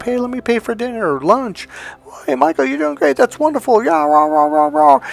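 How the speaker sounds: high-pitched, mocking flattery; fake friendly uncle. Uncle love bombing his nephew over lunch, imitated high mock gushing. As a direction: gush falsely in a high voice, dissolving into babble. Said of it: "was to sucker me in".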